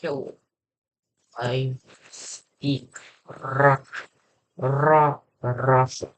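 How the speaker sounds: halting, tentative Russian accent. Shown as a demonstration. Language learner practising on himself, halting Russian accent. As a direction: feel out a Russian accent word by word. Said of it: "trying to speak in a Russian accent".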